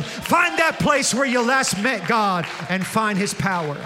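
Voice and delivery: loud preacher's exhortation, punching each line; preaching at full force. Acted. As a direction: drive it home to the congregation. Preacher exhorts again mid-story.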